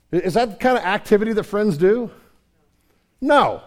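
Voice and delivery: mounting pulpit challenge; preaching build. Acted. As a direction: build to a forceful No.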